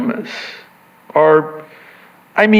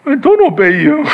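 put-on child voice; 9 semitones higher, faster than usual. Child answering mom.

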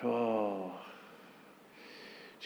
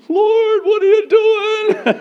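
panicked shout; 13 dB louder, slower than usual. Acted. Believer cries out to God.

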